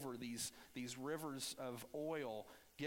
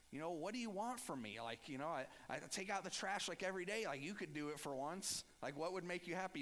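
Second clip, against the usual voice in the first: retold sarcastic kid, pitched up; 3 semitones higher than usual. A kid talking back to mom about the trash, mock-sarcastic. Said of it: "I was a little sarcastic and a little ornery".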